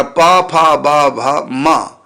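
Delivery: पा फा बा भा मा, each syllable said separately; the pa row, letter by letter; letter recitation. Shown as a demonstration. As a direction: drill the pa row for a class. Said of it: "पवर्ग बोलते हैं इसको".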